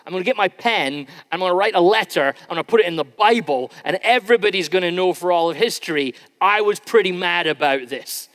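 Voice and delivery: half-playful angry outburst at God; psalmist's rage. Acted. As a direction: voice the psalmist shaking his fist at God. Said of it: "his rage says".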